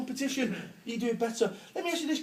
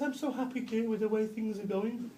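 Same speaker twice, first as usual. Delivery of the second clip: sweetly; 6 dB quieter than usual. Retold or imitated. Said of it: "she turns to me sweetly".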